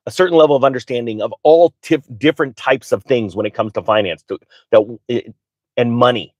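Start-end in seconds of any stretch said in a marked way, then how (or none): 4.2-6.3 stumbling over small words, restarting; stuttering. Real, not acted. Live streamer losing the thread on finance and money, stuttering. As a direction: trip on the words and start over. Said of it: "I'm stuttering right now".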